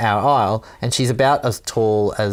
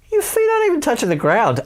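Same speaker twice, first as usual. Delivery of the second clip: smart-ass tone; 3 dB louder, faster than usual. Retold or imitated. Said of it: "And I've said it like that".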